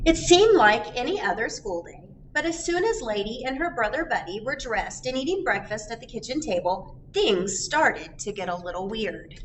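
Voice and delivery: put-on reading a picture book aloud to kids; lively read-aloud to a class; story narration. A narrator's reading. Teacher reading the story to children, lively.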